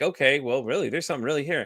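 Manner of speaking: plain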